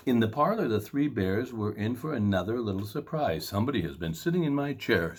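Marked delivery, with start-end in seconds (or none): 3.5-5.2 Papa Bear. Acted. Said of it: "said Papa Bear".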